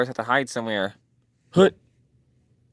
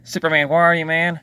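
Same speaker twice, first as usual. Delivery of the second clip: calling out; 4 semitones higher than usual. Acted. Calling for Superman.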